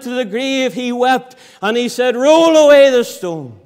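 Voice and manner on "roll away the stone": loud preacher's command as Jesus; commanding call. Acted. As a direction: call it out to the crowd at the tomb.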